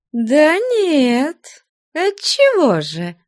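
high, sugary hostess voice, smiling; sweetly smiling. Acted. Nun Taisia to her guest, high and sugary with a smile. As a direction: coax him sweetly with a smile. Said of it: "сладко улыбаясь".

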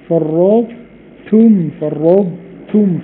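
very slow فرطتم, ط heavy before ت; فرطتم drawn out, ط traced; partial merge. Shown as a demonstration. Teacher demonstrating exception, slow. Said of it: "فرطتم في يوسف".

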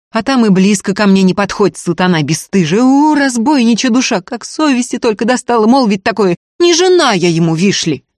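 high, loud indignant tirade; shouted, offended railing; outraged scolding. A narrator's reading. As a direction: berate him, wounded and furious. Устинья ругает Ефима в ссоре.

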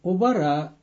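usual speaking voice

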